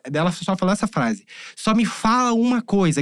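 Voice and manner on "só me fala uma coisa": high, slow, emphatic mother's demand; mild mock yell, pitched up; retold yelling. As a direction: imitate a mother pressing for an answer. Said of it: "gritando pra mim".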